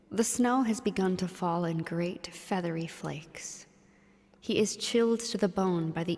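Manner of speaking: hushed storytelling whisper; whispered narration. Acted.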